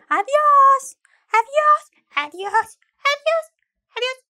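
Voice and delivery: high, sing-song farewells; playful goodbyes. Acted. Teacher signing off to viewers, playful high goodbyes. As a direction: wave them off in bright bursts.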